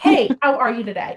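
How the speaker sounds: casual call-out to a passer-by; friendly greeting. Pretend. Greeting someone walking outside your door, friendly call-out. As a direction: toss out a chatty hello.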